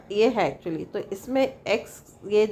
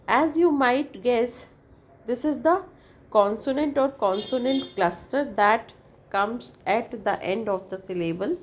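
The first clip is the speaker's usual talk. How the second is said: slow, careful reading of a definition; slow textbook reading; much slower than usual. Acted. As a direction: read it out word by word for the class. Reads definition from the text.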